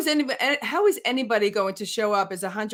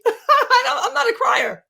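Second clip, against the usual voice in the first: laughing disbelief; 13 semitones higher, 6 dB louder, slower than usual. Real, not acted. Laughing at herself crying.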